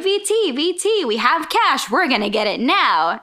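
lightly voiced eager gambler, pitch jumping up; old gamblers. Old gamblers pestering a trucker for a bet, lightly voiced and eager. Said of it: "three old gamblers".

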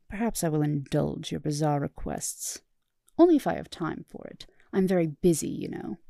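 lofty, condescending; haughty. Acted. Starscream pretending to be busy, haughty and condescending. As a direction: act superior and busy.

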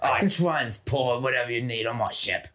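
low action-star pirate voice; lightly hammed-up tough pirate; Jason Statham pirate. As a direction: tough transporter pirate, played for laughs. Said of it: "I'm the transporter pirate".

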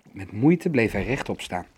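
plain reading voice

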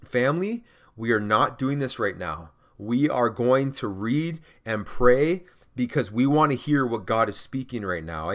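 measured, steady address to the family; composed and firm, easing down in pitch; calm, confident. Acted. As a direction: settle them with calm, unhurried authority. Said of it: "just calmly and confidently say".

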